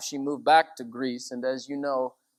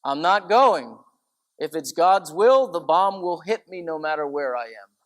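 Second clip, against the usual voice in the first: firm, louder quoted resolve; a firm elderly nun refusing to hide; quoting her; 6 dB louder than usual. Retold or imitated. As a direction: say it like her own firm stand. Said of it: "And she would say".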